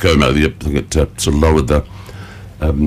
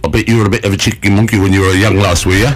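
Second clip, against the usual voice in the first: northern puppet voice; faster than usual. Pretend. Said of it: "started speaking with northern accent".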